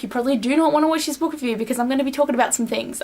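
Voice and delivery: rushed, hurried delivery; talking really fast. Real, not acted. Vlogger warning viewers about spoilers, talking really fast. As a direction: rattle it out quickly. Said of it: "I am talking really fast".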